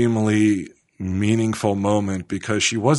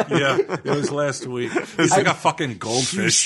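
shocked laughter; 5 semitones higher than usual. Real, not acted. Laughs at Ming's story.

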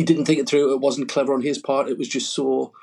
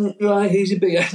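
higher-pitched mock beer fetcher; mimicked beer fetcher; 8 semitones higher, 3 dB louder than usual. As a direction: put on a high voice, mimicking someone handing over a beer. Mimicking people fetching the beers.

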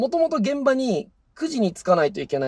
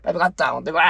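gruff dad order; 3 semitones lower, much faster than usual. Retold or imitated. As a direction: order it like the boss. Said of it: "言われたもの渡す".

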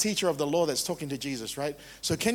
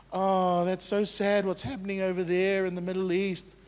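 mock pity; 2 semitones higher than usual. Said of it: "That's pity".

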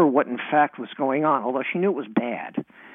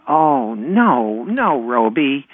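mock dismay; 4 dB louder, much slower than usual. Brother pretends to protest to dog.

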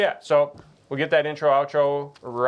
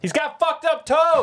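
laughing; 3 dB louder, slower than usual. Real, not acted. Teasing a friend, laughing.

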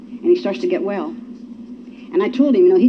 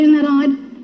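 higher, laughing mock wonder; mock puzzled quote; 6 semitones higher, slower than usual. Speaker mimicking people who call it coincidence, mock puzzled. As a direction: imitate people marveling with a laugh. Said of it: "People say".

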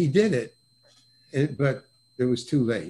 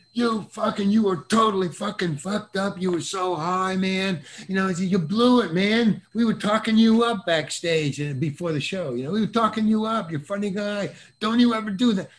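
imitating a scolding, pitched up; mock riot act; 5 semitones higher than usual. Tommy Smothers scolding the young comic backstage, lightly imitated anger. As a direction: tear into him like a lightly played angry father. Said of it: "read the riot act to me".

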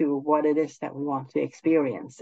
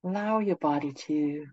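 guided meditation; 4 dB quieter than usual. Acted. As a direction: ease them gently into stillness.

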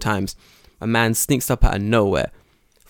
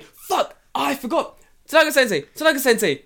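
high fake-surprised, slowed question; mock fake remembering; 3 dB louder than usual. Teacher fakes forgetting, then baits Tanaka again. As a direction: act like it just slipped your mind. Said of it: "I'm like".

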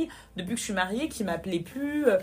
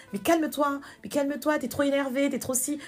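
higher-pitched, insistent hushing; repetitive, pitched-up mock placating; imitated placating relatives; 5 semitones higher than usual. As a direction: mimic relatives telling her to calm down. In-laws telling her to calm down.

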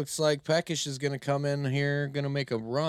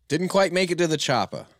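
Arnold Schwarzenegger impression; 7 semitones higher, 8 dB louder, faster than usual. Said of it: "get to the chopper".

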